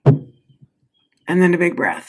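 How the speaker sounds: slow, drawn-out breath cue; slow demo. Shown as a demonstration. Coaching viewers to breathe, slow and calm. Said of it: "I'm gonna have a little water".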